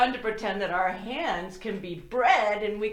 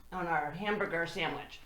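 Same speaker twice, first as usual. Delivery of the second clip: whisper; 6 semitones lower, 6 dB quieter, faster than usual. Acted. Playful hush to kids.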